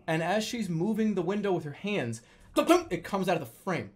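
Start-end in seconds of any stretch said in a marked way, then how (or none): 2.5-2.9 quick mouth-made double thump; imitated thump. Storyteller showing the window falling from its frame, imitated thump. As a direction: mimic the window popping loose.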